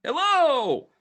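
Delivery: high, loud metal-man greeting; booming robot hello. Acted. Warforged entering the shop, booming hello. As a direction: call out like a cheerful Warforged. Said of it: "He comes in and he goes".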